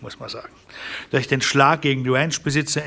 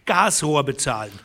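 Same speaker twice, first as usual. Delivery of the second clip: higher, mocking retort; scornful scoff; 5 semitones higher than usual. A rancher mocks the hope in the courts, higher and scornful. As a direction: scorn the idea of law.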